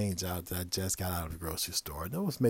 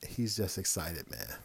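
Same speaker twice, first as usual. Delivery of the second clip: voice of reason; 4 semitones lower, 6 dB quieter than usual. Retold or imitated. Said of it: "a voice of reason came over and said".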